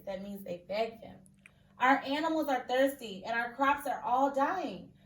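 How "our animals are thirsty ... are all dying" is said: mild pleading. Acted. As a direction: plead with the king, lightly. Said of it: "pleaded the villagers".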